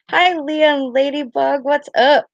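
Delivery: high-pitched, sing-out hello; excited greeting. Real, not acted. Greeting friends arriving in the live chat, high excited hello.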